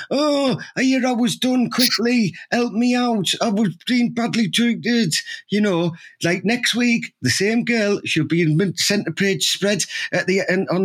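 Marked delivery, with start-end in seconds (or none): 0.1-5.1 mock whining victim. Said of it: "they're on the floor".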